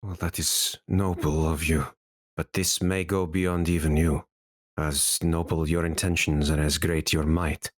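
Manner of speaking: a hint of a solemn old-world scholar; grave sage. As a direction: gently warn the heroes as a wounded sage. GM voices sage warning the heroes.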